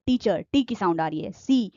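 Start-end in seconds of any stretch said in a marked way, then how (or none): 1.3-1.7 सी, कार drawn out very slowly, letter then word; teacher sounding out a word slowly. Shown as a demonstration. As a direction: spell the sound out slowly for students. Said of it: "आप खुद से बोल के देखिए".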